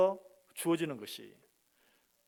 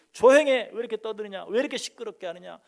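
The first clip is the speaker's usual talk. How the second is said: scolding; 5 semitones higher, 10 dB louder than usual. Retold or imitated. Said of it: "꾸짖죠".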